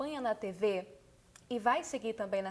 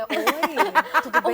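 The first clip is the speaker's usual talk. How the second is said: loud, higher demonstrated flirty hello; flirty voice message; 4 semitones higher, 10 dB louder, much slower than usual. Shown as a demonstration. Journalist showing the audio she sends a crush, flirty hello. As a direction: send a showy audio greeting to a crush. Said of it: "manda um áudio".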